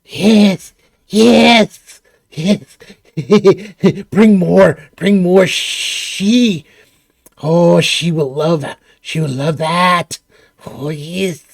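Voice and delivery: slow, hissing creature; lightly voiced reptile whispering greedily. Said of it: "you hear a voice".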